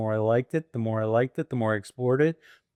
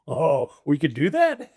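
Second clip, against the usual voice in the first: drawn-out, higher retold surprise; amazed realization; 4 semitones higher, 4 dB louder, slower than usual. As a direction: act out a group catching on. Acting out the group's amazed reaction.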